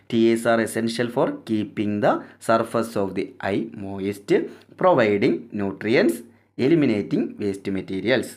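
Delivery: each English word read out slowly for notes; slow dictation. Shown as a demonstration. Teacher dictating the textbook line to students, very slow and deliberate.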